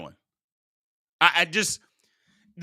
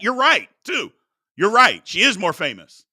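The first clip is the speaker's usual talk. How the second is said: sarcastic agreement; 2 semitones higher, 5 dB louder than usual. Real, not acted. Host mocking a caller's point, sarcastic loud agreement. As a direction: pretend to give in, dripping sarcasm.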